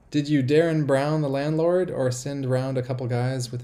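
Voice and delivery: loud, high, over-enunciated question; loud, deliberate re-read with lifted pitch; emphatic restart. Real, not acted. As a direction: read it out big after a stumble. Restarts the stumbled comment with force.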